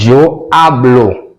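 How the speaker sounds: slow, spelled-out "eu hablo"; slow model. Shown as a demonstration. Teacher repeats the conjugated form slowly. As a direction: draw "eu hablo" out slowly for students. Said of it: "Vem aqui".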